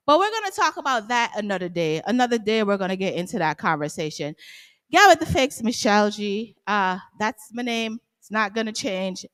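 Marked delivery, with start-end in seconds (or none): 4.9-6.6 catchphrase sign-off. Real, not acted. Signing off with catchphrase.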